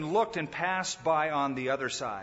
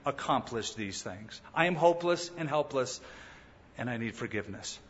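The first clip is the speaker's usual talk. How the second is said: humble confession; 2 semitones lower than usual. Pretend. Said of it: "and then humble and say".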